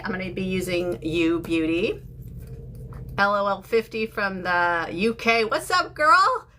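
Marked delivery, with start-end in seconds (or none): 5.5-6.5 high, loud and thrilled; excited greeting. Real, not acted. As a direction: call out to a friend with delight. Greeting a viewer from the UK.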